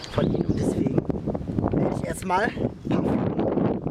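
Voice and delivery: gusty wind buffeting the mic. Real, not acted. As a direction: wind noise over the voice. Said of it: "sorry für den Wind wieder".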